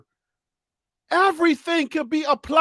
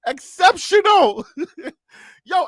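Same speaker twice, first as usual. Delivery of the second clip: laughing; 2 semitones higher, slower than usual. Real, not acted. Laughing through word list.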